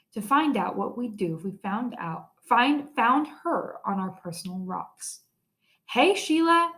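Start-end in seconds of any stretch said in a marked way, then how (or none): 5.9-6.7 calling out. A narrator's reading. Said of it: "I said".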